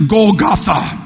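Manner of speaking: "Golgotha" said as GOL-guh-thuh; English pronunciation. Shown as a demonstration. Preacher teaching the English name, pronouncing "Golgotha". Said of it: "we pronounce it".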